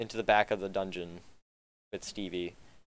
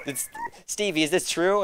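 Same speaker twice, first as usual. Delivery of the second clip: stern guard voice; 8 semitones higher, 3 dB louder than usual. Acted. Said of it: "He goes".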